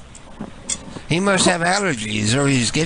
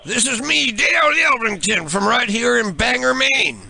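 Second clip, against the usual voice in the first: higher, overly friendly fake pal; chummy prank caller; 6 semitones higher than usual. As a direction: greet him like an old buddy he's never met. Prank caller playing a fake persona.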